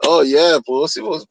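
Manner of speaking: lightly voiced fanboy gushing; a hint of a gushing fan, trailing off; mocking the founder. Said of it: "all he kept saying".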